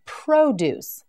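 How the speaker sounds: Produce said as pro-DUCE, stress on the second syllable; Produce, stressed at the end like the verb. Shown as a demonstration. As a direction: put the weight on -duce in Produce. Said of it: "is also spoken like this".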